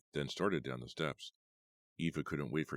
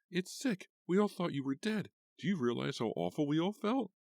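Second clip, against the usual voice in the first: very high, loud outraged voice; furious; 14 semitones higher, 4 dB louder than usual. A narrator's reading. Eva scolds Tanya, high furious voice. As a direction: lash out in outrage.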